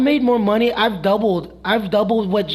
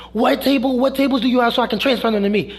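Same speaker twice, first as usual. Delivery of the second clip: higher-pitched imitation of a pushy coworker; raised pitch, hurried retold demand; mock aggressive demand; 4 semitones higher than usual.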